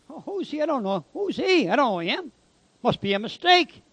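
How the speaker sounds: mock-puzzled inner voice, pitch swooping on the questions; acted bewilderment. Convict eyeing strangers who came to visit him, acted bewilderment.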